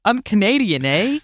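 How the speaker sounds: put-on playful Canadian accent with eh; lightly hammed Canadian, ending on eh. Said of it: "at the Canada Pavilion".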